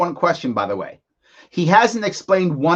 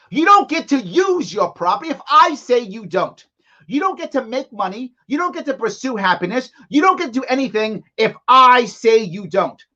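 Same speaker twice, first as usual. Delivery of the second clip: remorseless tyrant. Retold or imitated. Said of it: "What he just said, with no remorse".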